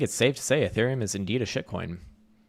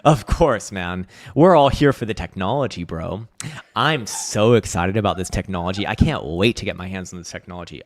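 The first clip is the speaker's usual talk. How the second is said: mock enthusiasm, louder; sarcastic hype; 5 dB louder than usual. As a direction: fake excitement, dripping sarcasm. Sarcastic reply to tech question.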